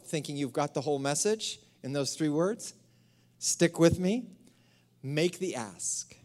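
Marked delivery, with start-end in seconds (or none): 5.0-6.1 slow breathy whisper of the phrase; hushed emphatic whisper. Acted. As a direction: lean in and whisper it. Dramatic whispered repetition of phrase.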